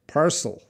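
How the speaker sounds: PARCEL said distinctly, falling at the end; "Parcel" as a careful standalone word; clear pronunciation demo. Shown as a demonstration. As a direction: model the word "Parcel" for a learner. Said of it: "how do you say parcel".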